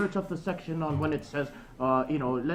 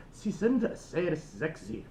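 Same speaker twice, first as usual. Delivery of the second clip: slow careful German; slower than usual. Shown as a demonstration. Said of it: "I have to say something to the effect of".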